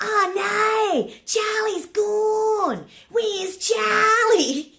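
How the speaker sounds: high, drawn-out broad Australian wail; hammed-up Australian kid calling out, vowels stretched; broad Australian schoolkid. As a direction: exaggerate the old-time broad Australian accent, loud. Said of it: "We all spoke like that".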